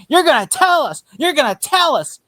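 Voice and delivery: high, loud mock shout; mock yell. Friend imitating Bullock yelling at the boy in interrogation, loud mock shout. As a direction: bark it like an angry cop.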